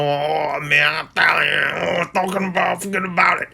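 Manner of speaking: put-on light New York Italian-American accent, tossed off; a quick nod to a Jersey Italian accent; Joey Scarletta Italian-American accent. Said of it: "like freaking Joey Scarletta".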